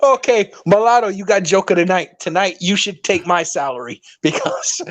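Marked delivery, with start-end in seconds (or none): 0.0-1.1 laughing. Real, not acted. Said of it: "you made me cry".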